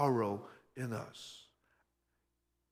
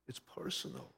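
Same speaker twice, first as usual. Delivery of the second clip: whispered emphasis; 12 semitones lower, 9 dB quieter than usual. Real, not acted. Preacher to congregation, sin against God is personal, whispered. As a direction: drop to a hushed whisper. Preacher drops voice on key point.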